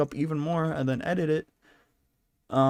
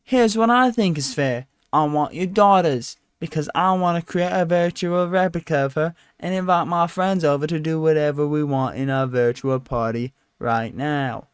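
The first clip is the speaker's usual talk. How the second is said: loud demanding voice; 4 dB louder than usual. Retold or imitated. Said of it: "Sean Penn says".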